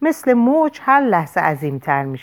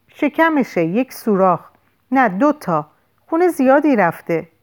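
higher, anxious reporting voice; alarmed; 6 semitones higher than usual. A narrator's reading. Lou telling Dana about the bullet wounds, alarmed.

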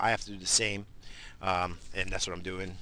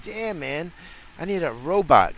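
frustrated outburst; 8 semitones higher, 7 dB louder than usual. Retold or imitated. Exasperated self-quote wanting robot.

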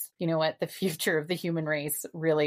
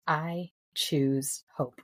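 slow solemn mantra; much slower than usual. Shown as a demonstration. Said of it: "It is".

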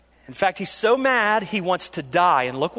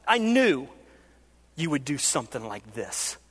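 bitter despair; 2 semitones lower than usual. Retold or imitated. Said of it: "what he says is basically this".

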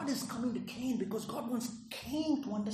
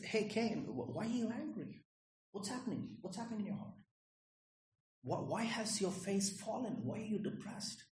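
tender God. Acted. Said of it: "in a gracious, in a tender way".

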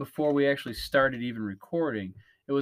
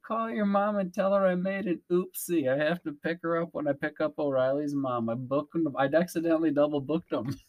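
put-on Canadian accent. Host quoting a show's chirp to co-host, attempted Canadian accent. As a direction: try your best Canadian accent, lightly laid on. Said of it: "trying to do my best Canadian accent".

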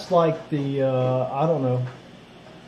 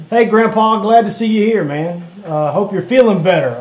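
cheery greeting; 4 semitones higher, 4 dB louder than usual. Real, not acted. Greeting a viewer on stream.

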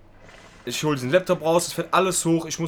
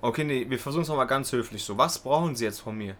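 composed, mildly courteous retelling; calm and polite. Retold or imitated. Trainee trying politely with the clerk, calmed-down courtesy. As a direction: imitate making a civil fresh attempt. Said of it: "ich hab mich so beruhigt".

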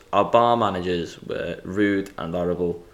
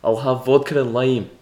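mild Scottish accent, a touch higher; 3 semitones higher than usual. Shown as a demonstration. Friend asks to hear it again, Scottish accent. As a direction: give the order a light Scottish lilt. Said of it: "Do it again".

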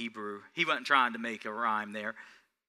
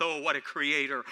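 ordinary talk, nothing marked

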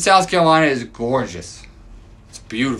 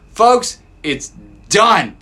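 higher, slow, deliberate proclamation; slow triumphant announcement; 5 semitones higher, 3 dB louder, much slower than usual. Real, not acted. Fan announces to listeners the Braves are in, slow and triumphant. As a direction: let it land slowly, triumphant.

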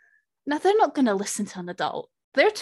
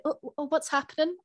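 put-on nosy kid; 7 semitones higher, 4 dB quieter than usual. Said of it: "you're just like".

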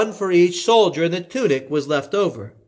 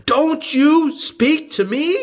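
higher, slow probing question; Pilate questioning; 13 semitones higher, 3 dB louder, slower than usual. A narrator's reading. Pilate questioning Jesus, higher and slow. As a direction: press him for an answer.

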